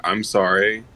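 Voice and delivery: lightly sarcastic apology. Shown as a demonstration. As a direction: say sorry with a touch of sarcasm. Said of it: "a sarcastic, like".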